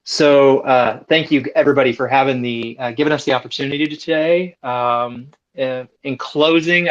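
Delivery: wired from an energy drink; jittery, over-caffeinated energy; too much caffeine. Real, not acted. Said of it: "so I'm wired right now".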